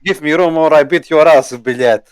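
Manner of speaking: put-on Russian accent. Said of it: "you call this a Russian accent".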